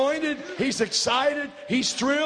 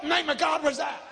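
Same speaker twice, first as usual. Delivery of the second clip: shouted outrage; 4 semitones higher, faster than usual. Real, not acted. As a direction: blurt it out in astonishment. Preacher exclaims at the commercial.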